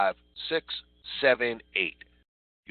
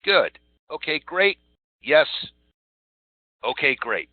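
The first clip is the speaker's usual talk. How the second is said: higher, bright cheerful customer-service praise; upbeat positive reply; 5 semitones higher, 6 dB louder than usual. Shown as a demonstration. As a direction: sell the enthusiasm to the caller. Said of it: "These are all positive responses".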